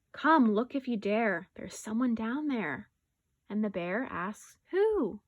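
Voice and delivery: animated, expressive story narration; picture-book read-aloud. Acted. Teacher reading a rhyming bear story to pupils, animated storytelling. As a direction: read it lively to young children.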